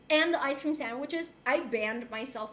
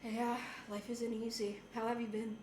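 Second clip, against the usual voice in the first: Puerto Rican reply; 4 semitones lower, 9 dB quieter than usual. Retold or imitated. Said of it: "the other Puerto Rican's gonna be like".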